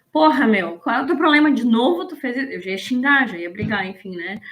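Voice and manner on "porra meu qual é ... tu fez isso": louder, exasperated telling-off of a crying friend; mock angry scolding. Friend imitates scolding a crying friend, in mock anger. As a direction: snap at her like an impatient friend. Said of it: "eu diria assim".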